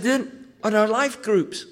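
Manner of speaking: imitating the Glaswegian pastor glowing over the packed church; excited Barry. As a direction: savour every word of the revival news. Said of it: "He said".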